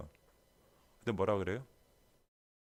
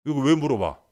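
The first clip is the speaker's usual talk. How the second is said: irritated snap; 9 dB louder than usual. Pretend. Exasperated boyfriend.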